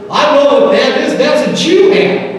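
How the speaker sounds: farmer's voice. Retold or imitated. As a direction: voice the suspicious farmer pointing out the hat. Farmer confronts Jewish driver.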